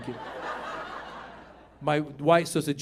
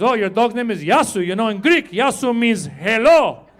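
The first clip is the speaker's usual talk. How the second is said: Greek guy; 3 semitones higher, 5 dB louder than usual. Retold or imitated. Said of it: "some Greek guy".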